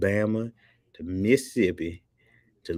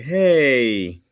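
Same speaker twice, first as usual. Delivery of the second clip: higher, stretched-out mock greeting; put-on high, lingering call; Ice; 6 semitones higher, 6 dB louder, much slower than usual. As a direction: draw out a high imitated "hey". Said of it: "Like, Ice is like".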